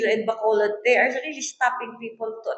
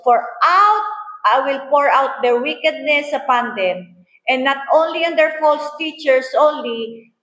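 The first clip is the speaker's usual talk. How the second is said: raised, declaiming Bible reading to the church; scripture reading; 4 dB louder than usual. Acted. Preacher reads Jeremiah aloud to the congregation, declaiming. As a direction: read the prophecy out with weight.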